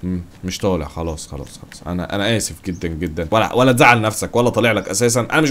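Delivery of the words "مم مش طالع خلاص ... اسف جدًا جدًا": low, soft, sheepish apology; meek backing down. Real, not acted. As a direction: shrink back and apologise quietly. Backs down and apologises meekly. (اعتذار واطي ومنكسر)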